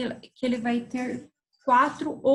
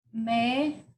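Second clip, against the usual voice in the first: separated syllables. Shown as a demonstration. Teacher writing an example word, México in widely spaced syllables. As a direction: dictate México one isolated syllable at a time. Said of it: "número de sílabas que a gente separa".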